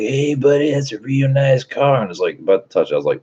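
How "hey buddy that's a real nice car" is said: imitating crackhead. Crackhead approaching his car.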